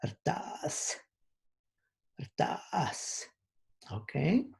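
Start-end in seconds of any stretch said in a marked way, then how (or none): 0.1-3.3 rtas said with a creaky vowel and a falling tone. Shown as a demonstration. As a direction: let the pitch drop through rtas. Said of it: "one more time".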